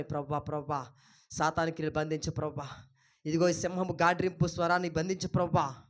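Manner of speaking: low, softened plea to God; subdued petition to the Lord; model prayer. Shown as a demonstration. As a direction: pray it quietly.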